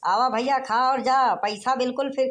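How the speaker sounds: street hawker's rolling patter; calling out to passers-by. Acted. Food-stall host inviting the deaf to eat free, calling out. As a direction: keep the invitations coming in a chanting call.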